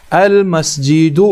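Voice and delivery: المسجد said slowly and clearly; careful slow demo word; slow model word. Shown as a demonstration. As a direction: read المسجد slowly for the learners. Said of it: "دوسری مثال آپ دیکھ لیجئے".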